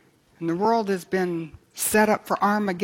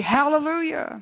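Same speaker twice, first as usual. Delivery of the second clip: mock shout of praise; 7 semitones higher than usual. Heaven's multitude shouting praise again, high jubilant cry. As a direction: proclaim it as a jubilant multitude would. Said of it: "And again they shouted in verse three".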